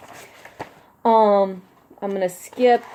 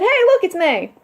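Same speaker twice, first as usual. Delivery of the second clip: imitating Frog; 11 semitones higher, 4 dB louder than usual. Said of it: "and said".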